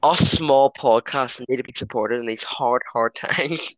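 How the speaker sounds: mock campaign speech; slow, grand stump speech; politician speech voice. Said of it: "Right there, Jeremy Corbyn".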